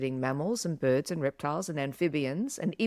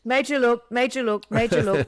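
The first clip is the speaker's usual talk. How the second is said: excited; 5 semitones higher, 5 dB louder than usual. Real, not acted. Excited repeated exclamation.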